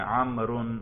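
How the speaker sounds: عمرن said as amrun, ending in a nasal -un; nominative -un ending. Shown as a demonstration. Teacher lists the case endings for the student, -un first. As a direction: say عمرن with a clear -un at the end. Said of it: "تینوں اعراب بھی آتے ہیں".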